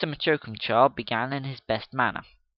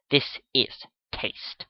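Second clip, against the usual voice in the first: hushed pronouncement; much slower than usual. Acted. Final pronouncement.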